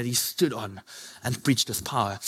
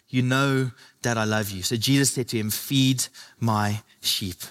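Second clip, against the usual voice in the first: scripture reading; 3 semitones lower than usual. Acted. Reads John 21 dialogue slowly.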